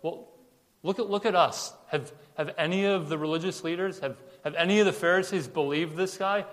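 mock-superior, pitch lifting on the questions. Religious leaders holding themselves up to the guards, very condescending. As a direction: talk down from on high. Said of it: "to be even more condescending".

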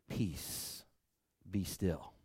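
hushed command. Shown as a demonstration. Preacher repeating the storm rebuke softly, hushed. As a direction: breathe it out gently. Soft reprise after the shout.

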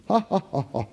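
a hammed-up fake "Ha, ha, ha", high then dropping; mock laugh. Mocking a laugh festival to the congregation, hammed-up fake laughter. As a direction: fake a big belly laugh, then let it die. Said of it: "one big laugh festival".

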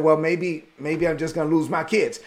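mild resigned sigh of a line; discouraged. Retold or imitated. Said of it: "he turned around and said".

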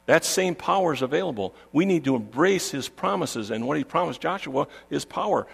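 rallying the congregation from the pulpit; fervent preaching. Acted. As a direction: preach it with lifted pitch and rolling emphasis. Preaches with rising fervour.

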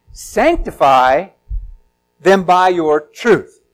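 Sanctify drawn out slowly, each syllable weighted; slow, deliberate quote. Shown as a demonstration. Preacher slowly intoning scripture to the congregation, solemn. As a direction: read "Sanctify them by your truth" slowly and solemnly. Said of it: "you should know that word".

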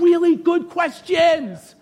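REALLY GOOD QUESTIONS stretched out slowly; emphatic concession. Real, not acted. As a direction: hit "Really good questions" slow and strong. Emphatic concession while preaching.

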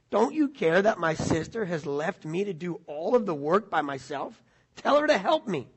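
a touch of resentment rising on "Tell her to help me"; resentful complaint. Acted. Martha complaining to the Lord about her sister, mildly resentful. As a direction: lightly voice Martha's frustrated complaint. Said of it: "you hear a little resentment there?".

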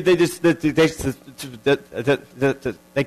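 stuck repeating they, they, they; imitating a stutter. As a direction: mimic someone who can't get the words out. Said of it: "somebody that has a stuttering problem".

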